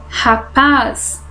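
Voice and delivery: "rapaz" with a long, strong PAZ; drawn-out last syllable in "rapaz"; stress on last syllable. Shown as a demonstration. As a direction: lean on the final PAZ of "rapaz". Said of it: "a última sílaba é forte".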